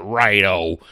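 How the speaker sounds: put-on rough stab at an Australian or English accent; lightly put-on, uncertain Australian or English accent; attempted Australian-or-English accent. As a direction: imitate a reviewer's accent, badly. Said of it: "in that accent".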